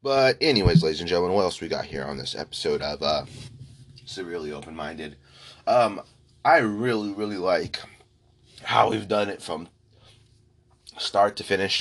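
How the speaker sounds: breathless after a coughing fit; out of breath. Real, not acted. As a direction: talk while still catching your breath. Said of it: "Sorry, I'm catching my breath again".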